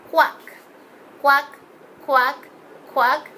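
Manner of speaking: lightly imitated duck quacks; short quacks, a hint of a duck; duck quacking. Shown as a demonstration. Teacher showing children the duck sound, light quacking. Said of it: "The dog sound".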